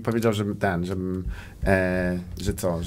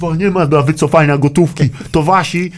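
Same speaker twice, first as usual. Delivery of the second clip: louder, higher retold rant; mock rant; 5 semitones higher, 6 dB louder than usual. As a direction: sound off at the film crew. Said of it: "Mówię". (udawana tyrada, głośniej i wyżej)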